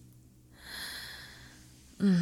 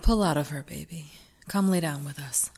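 whispering; 10 semitones lower, 5 dB quieter, faster than usual. Acted. Aftercare whisper.

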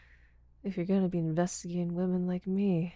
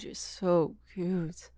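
very slow and louder, lingering on so; slow drawn-out praise; 4 dB louder, much slower than usual. Acted. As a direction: stretch the words out lovingly.

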